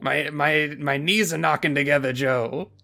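shivering with fear; mock trembling. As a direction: knees knocking, voice quivering. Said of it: "Pops is like".

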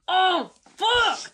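high-pitched yelp of a curse; mock scream. Podcaster acting out stubbing a toe, mock scream. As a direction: cry it out, voice leaping up. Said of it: "and you scream, like".

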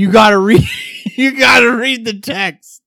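pleading protest. Real, not acted. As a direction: protest like you're begging him to give in. Pleading with co-host who refuses.

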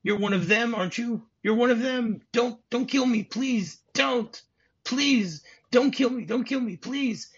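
high-pitched, hammed-up terrified pleading; mock hysterical begging, voice pushed way up; imitated panicked begging. Retelling Hans acting scared for John, high mock-panicked pleas. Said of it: "acting very scared".

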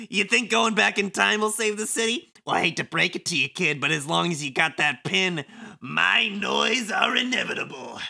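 breezy, mocking wiseguy; sly villain Kubo. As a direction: thank them with smug false gratitude. Plays Kubo reading game script.

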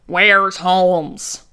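imitated American-accented intruder; hammed-up intruder voice; threatening intruder. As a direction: put on a slow tough-guy demand. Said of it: "Like that".

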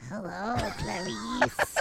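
very high, crying-laugh Hello, Clarice; goofy high-pitched Hannibal callback; squeaky Hannibal. Pretend. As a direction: squeal the catchphrase mid-giggle. Reprising the Hannibal bit.

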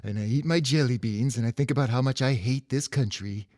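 lightly voiced Ronald Reagan; a hint of old Reagan voice; Reagan impression. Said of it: "slip into that voice".

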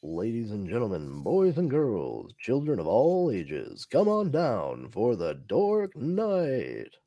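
booming circus ringmaster announcing. Pretend. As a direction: roll it out like a showman under the big top. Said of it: "No, that was great".

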